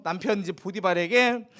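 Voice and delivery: normal talking voice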